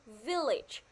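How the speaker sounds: "Village" with the first syllable stressed. Shown as a demonstration. Teacher explaining the word stress to pupils, first-syllable stress. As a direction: lean on the start of "Village". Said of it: "nhấn vào âm tiết là".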